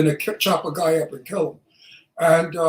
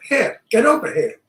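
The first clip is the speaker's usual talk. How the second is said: louder Brooklyn tough-guy demo; Brooklyn accent; 4 semitones higher, 5 dB louder than usual. Shown as a demonstration. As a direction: coach it in Brooklynese, R dropped from "here". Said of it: "teach me how to speak like you".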